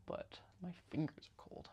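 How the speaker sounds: soft whisper, cold fingers. Real, not acted. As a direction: whisper it to yourself.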